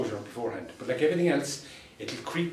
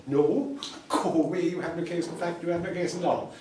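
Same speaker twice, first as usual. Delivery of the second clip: firm louder refusal; 6 semitones higher, 5 dB louder than usual. Retold or imitated. Final emphatic refusal.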